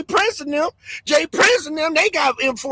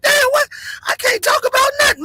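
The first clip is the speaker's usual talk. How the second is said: shocked outburst; 13 semitones higher than usual. Retold or imitated. Retelling shock at demonetization.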